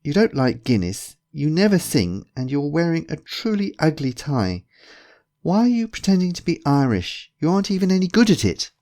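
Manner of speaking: rising incredulous protest; exasperated challenge. A narrator's reading. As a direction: call out a friend's silly act. Friend scolds Bjorn's Irish act.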